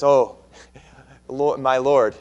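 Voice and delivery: grovel before Master Moses, a little hammed up; a mock-humble plea, lightly played for a laugh; mock humble pleading. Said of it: "And now he says".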